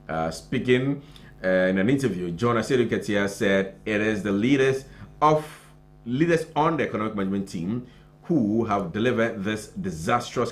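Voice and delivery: brisk, slightly lifted news-reading voice; news story read aloud on air. Acted. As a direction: read the report out in phrases, leaning on key words.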